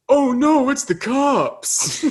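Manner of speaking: hammed-up fake alarm, stretched out; mock alarm. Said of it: "Bill Hader just goes".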